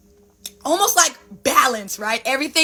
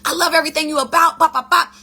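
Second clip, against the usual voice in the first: gushing fans; 5 semitones higher, 4 dB louder, faster than usual. Retold or imitated. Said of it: "People are like".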